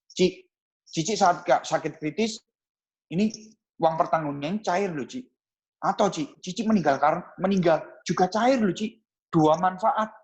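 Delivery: lively sales intonation, lifting on the benefits. Shown as a demonstration. Agent demonstrates benefit pitch to a client, with intonation. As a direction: pitch the benefits with expressive rises and falls. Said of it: "Pakai intonasi ya, teman-teman".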